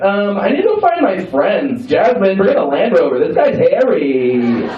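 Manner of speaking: put-on whiny party-girl act. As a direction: play that girl looking for her friends. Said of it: "totally that girl that's like".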